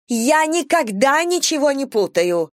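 high indignant shriek; high, shrill protest. A narrator's reading. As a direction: shriek it in offended outrage. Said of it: "взвизгнула Валерия".

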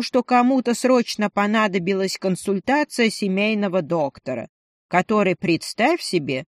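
boisterous friend calling at dawn. Acted. Narrator voices Lenchik on phone.

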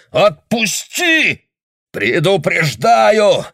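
high, slow, loud warning; strained shout. Acted. Guthrie yelling back at the father, strained. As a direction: yell the warning through a tight throat. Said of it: "кричал Гатри всё ещё сдавленным".

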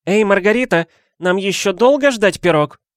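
high, loud shouted call across the room; loud bark. A narrator's reading. Woman shouting impatiently at the cook. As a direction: bellow for the cook from the party. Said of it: "рявкнула женщина".

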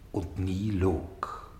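slow, hushed whisper; solemn whispered close. Acted. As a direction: let it fall to a whisper. Solemn narration of Korczak's honesty.

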